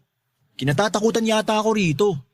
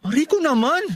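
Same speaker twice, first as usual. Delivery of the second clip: mock ouch; 9 semitones higher than usual. Pushed aside, exclaims pain.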